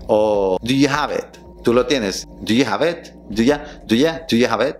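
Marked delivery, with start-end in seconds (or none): 0.6-1.4 "Do you" as "do ya"; reduced linked pronunciation. Shown as a demonstration. Teacher showing the ya sound, reduced pronunciation. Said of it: "un sonido como ya". 2.4-4.8 "you" shrunk to "ya"; reduced linked pronunciation. Shown as a demonstration. Teacher drilling the ya sound, reduced pronunciation. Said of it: "un sonido como ya".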